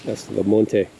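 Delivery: put-on a first light try at a Scottish accent; only a hint of Scottish accent, half-tried. Gardener tries saying the tree in a Scottish accent. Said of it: "I wanna say this tree in a Scottish accent".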